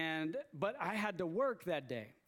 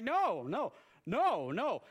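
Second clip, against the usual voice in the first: louder, higher no-no-no; loud refusal; 3 semitones higher, 5 dB louder, slower than usual. Retold or imitated. Fan to coworker, a loud retold refusal. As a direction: shut him down, fan refusing spoilers.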